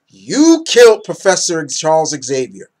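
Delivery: accusing. Acted. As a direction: lay the blame on him, forcefully. Acted accusation of Cyclops.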